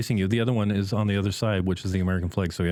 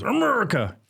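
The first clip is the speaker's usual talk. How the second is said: mock patriotic call; 11 semitones higher than usual. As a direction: belt it like a cheer. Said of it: "And Zach goes".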